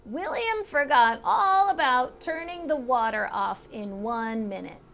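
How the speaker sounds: big brother narrating the story; Walter's voice. Acted. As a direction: read it as the older brother telling a tale. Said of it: "in Walter's voice".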